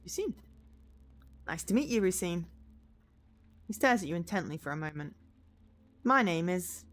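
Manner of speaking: measured narration with lightly voiced dialogue; storyteller giving passengers a light voice; story narration. A narrator's reading. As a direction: read the taxi scene aloud. Reads game story aloud.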